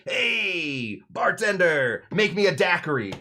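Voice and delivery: loud, high holler to the bartender; hammed-up bar-room call; calling out, acted. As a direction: play a cocky customer hailing the bar. Acts customer calling the bartender.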